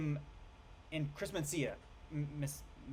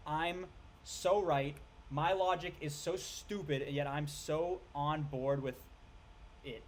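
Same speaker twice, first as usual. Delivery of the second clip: smug mockery; slower than usual. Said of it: "Messina is like".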